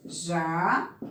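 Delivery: "jacaré" broken into ja, ca, ré with long pauses; syllable by syllable. Shown as a demonstration. Teacher writing each syllable in turn, long gaps between them. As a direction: say "jacaré" one slow syllable at a time.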